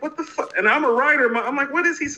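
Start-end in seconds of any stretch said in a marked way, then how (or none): 0.0-0.5 much higher and softer, disbelieving; a squeaky stunned what-the; teen self reacting to the review, high and stunned; baffled teen. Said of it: "This is the fourteenth going on fifteen-year-old me". 1.7-2.1 much higher, incredulous; teen self puzzling over the critic, high and incredulous; baffled teen. Retold or imitated. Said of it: "This is the fourteenth going on fifteen-year-old me".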